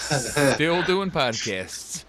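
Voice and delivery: announcer voice. Shown as a demonstration. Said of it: "That's my announcer voice".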